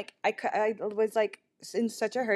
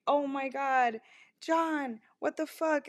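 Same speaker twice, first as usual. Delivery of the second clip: mild mock yell, higher pitch without the volume; retold yell; 5 semitones higher, slower than usual. Shy Swedish friend calling out John, retold yell. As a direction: imitate a friend's scandalized outcry, pitched up.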